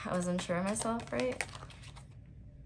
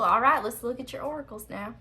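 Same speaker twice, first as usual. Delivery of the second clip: playful put-on voice; 3 semitones higher, 3 dB louder than usual. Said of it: "I don't know why I'm talking like this".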